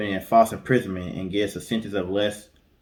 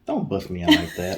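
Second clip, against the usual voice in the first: laughing while protesting; amused mock protest through a laugh. Real, not acted. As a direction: laugh it off, caught out by a friend. Caught out, laughing.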